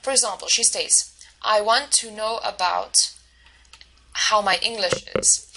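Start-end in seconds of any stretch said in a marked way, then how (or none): 1.4-5.5 "I want to know about" with even weight on each word, slowly; equal stress on every word. Retold or imitated. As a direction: tap every word with the same beat. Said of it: "she stresses each of the bolded words equally".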